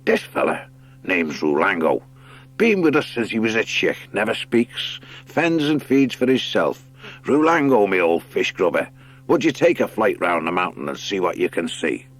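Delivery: put-on fond sailor's voice for his old bird; a hint of a gruff sea otter, fondly; lightly voiced otter skipper. Skipper fondly introduces his heron, light sailor voice.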